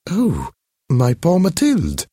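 high society lady, startled pity; a lady catching her breath at the sight of her friend; lightly voiced high lady. Recognizing her changed friend, high startled pity.

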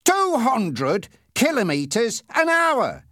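high, loud, drawn-out bellow; angry shout. A narrator's reading. Policeman confronting a speeding driver, loud outraged shout. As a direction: shout it slowly, word by word. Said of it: "he shouted".

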